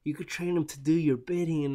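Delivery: whispered, sly military man; scheming military guy. Retold or imitated. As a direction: hiss it like a plotting officer. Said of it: "military guy who was like".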